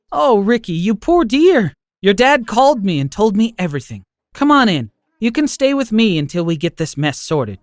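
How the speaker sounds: lightly voiced loving grandma comforting her grandson; kind grandma. Grandmother figure in story.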